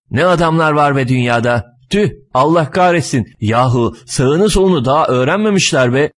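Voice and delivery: mildly exasperated grumbling; grumbling rant. Acted. Driver complains that passengers never learned the door, grumbling rant. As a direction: rant on about useless passengers. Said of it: "şoförün de çenesi açıldı".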